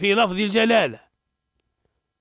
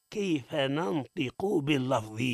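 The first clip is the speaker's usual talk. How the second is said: slow demonstration; 3 semitones lower, 6 dB quieter, slower than usual. Shown as a demonstration. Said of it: "اسمعنا كيف ننطق به".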